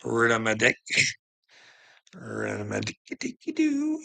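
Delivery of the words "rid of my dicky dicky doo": much higher, sing-song teasing with a rising end; silly sing-song. Acted. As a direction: warble it up high like a playground taunt. Silly sing-song repeat of line.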